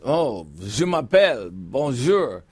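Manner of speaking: a hint of a French accent, playful; mock French. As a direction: toss off French phrases in a half-hearted French accent. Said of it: "And if I went to France".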